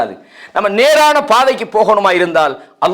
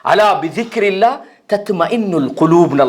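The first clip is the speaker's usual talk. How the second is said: slow Arabic verse recitation; Quran recitation. Acted. Preacher offers the verse on remembering God, slowly recited. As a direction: recite with lengthened syllables. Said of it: "அல்லாஹ் சொல்றான்".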